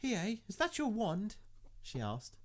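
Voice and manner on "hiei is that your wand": coy high voice. Acted. Coy innocent question.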